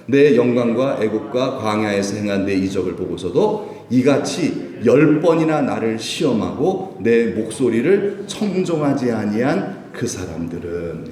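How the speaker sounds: slow solemn scripture reading. Acted. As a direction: read the verse slowly and deliberately.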